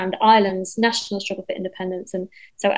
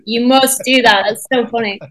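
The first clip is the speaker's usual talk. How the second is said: enthusiastic; 3 semitones higher, 7 dB louder than usual. Retold or imitated. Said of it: "And I was like".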